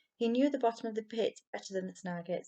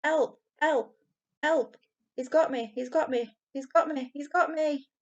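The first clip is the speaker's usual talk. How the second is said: high, loud terrified screams; shrill scream of terror; 6 semitones higher, 7 dB louder than usual. A narrator's reading. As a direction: cry for help as if caught by a monster. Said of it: "a shrill scream of terror".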